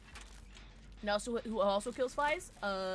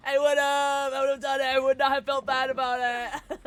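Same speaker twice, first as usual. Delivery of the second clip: loud, raised, sustained declaration; emphatic, high-held holler; loud insistence; 4 semitones higher, 10 dB louder than usual. Real, not acted. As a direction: insist at full volume without letting the pitch drop. Hammed-up insistence about quitting.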